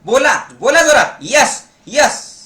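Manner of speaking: forceful call for a response; loud rallying. Shown as a demonstration. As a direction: rouse the crowd to shout back. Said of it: "अजून जोरात बोला". (जोरात, जोशात)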